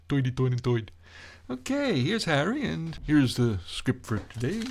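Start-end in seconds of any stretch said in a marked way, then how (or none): 0.1-0.9 put-on "oy" for "ir", old New York style; New York accent. Shown as a demonstration. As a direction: relish the New York "Doidy Doid and Doid". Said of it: "I love saying that".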